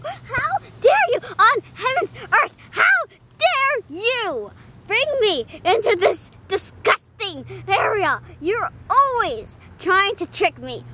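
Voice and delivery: mock outraged rant; hammed-up diva complaint, hitting key words; indignant doll. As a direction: pretend scolding with dramatic emphasis. Doll Mariah rants at her owner.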